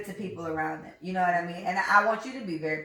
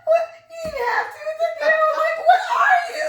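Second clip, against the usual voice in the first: much higher and louder, cracking up; laughing quote; 8 dB louder than usual. Retold or imitated. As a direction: squeal the lines through laughter. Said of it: "Oh, she's like".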